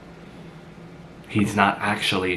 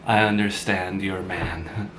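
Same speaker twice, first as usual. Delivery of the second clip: sarcastic. Acted. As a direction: needle them lightly, dragging out the first words. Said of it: "I'm sorry for the sarcasm".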